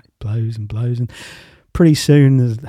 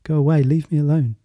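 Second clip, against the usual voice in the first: trembling voice; 4 semitones higher than usual. Acted. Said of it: "calls back in a trembling voice".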